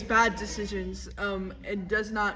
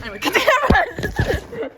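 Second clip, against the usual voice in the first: much higher and louder, slow laughing hand-off; laughing wave-off; 13 semitones higher, 14 dB louder than usual. Real, not acted. Vice president cracking up, handing back to the anchor.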